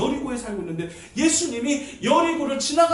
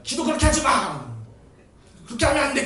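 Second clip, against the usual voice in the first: annoyed worshipper's raised-voice telling-off; mock cross scolding; 2 semitones higher, 4 dB louder than usual. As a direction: scold someone for praying wrongly. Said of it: "뿔이 나가지고". (뿔난 듯 나무라는 흉내)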